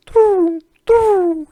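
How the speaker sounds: high falsetto pigeon coo. Retold or imitated. Mugging pigeon cooing at a tourist, high falsetto coo. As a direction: coo it like a menacing street pigeon.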